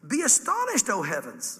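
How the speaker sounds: hamming up God calling out to the sky; facetious. Pretend. Preacher mock-voicing God talking to the heavens, hammed-up. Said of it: "I'm being facetious".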